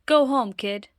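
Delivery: stern order. Acted. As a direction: send the kid home sternly.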